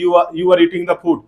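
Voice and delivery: slow, careful English, word by word; slow model sentence. Shown as a demonstration. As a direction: spell it out slowly for the class. (धीरे-धीरे साफ़ बोलकर)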